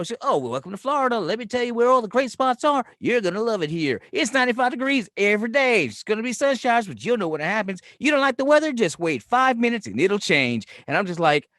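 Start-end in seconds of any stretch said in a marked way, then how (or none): 0.2-10.6 high, gushing imitation of a welcoming local; Southern charm lady. Florida local welcoming a newcomer, effusive Southern charm. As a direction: lay on the hospitality, pitch lifted. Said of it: "the Southern Charm lady".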